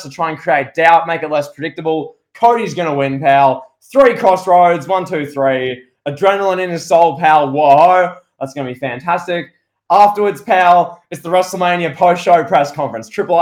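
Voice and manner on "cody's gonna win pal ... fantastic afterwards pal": loud hyped-up build with punchy pals; excited hype. Real, not acted. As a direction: sell it like a promo, louder.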